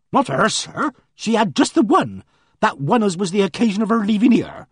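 a flustered countrywoman pouring out her news; voiced housekeeper. Mrs Baker answers.

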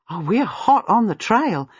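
determined heartiness. Acted. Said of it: "tone of determined heartiness".

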